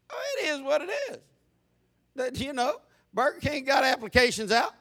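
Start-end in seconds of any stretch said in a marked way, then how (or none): 0.1-1.2 high, quick mock shrug; breezy comic reply. Comic answer to worried parent.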